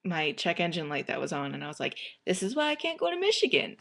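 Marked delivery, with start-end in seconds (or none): 2.2-3.8 high-pitched mock pout; sad whine. Driver captioning her check engine light photo, sad mock whine. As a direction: whine it, feeling sorry for yourself. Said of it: "And it was very sad".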